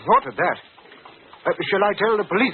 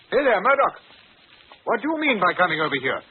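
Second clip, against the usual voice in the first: angry call; 4 semitones higher than usual. Acted. Master confronts insolent subordinate.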